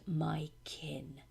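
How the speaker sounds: breathy vampire whisper. Acted. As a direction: hiss out the final claim softly. Vampire claiming his victim.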